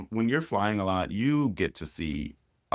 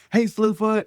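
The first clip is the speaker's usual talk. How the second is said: higher, louder mock call of her nickname; imitated fan shout-out; 12 semitones higher, 5 dB louder than usual. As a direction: hail her like a fan across a room. Fan greets her on tour.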